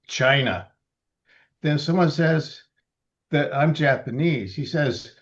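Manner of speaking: measured poem reading, some lines slowed; poetry reading. Acted. Reading her poem about being told to go back, measured. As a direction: read each line deliberately.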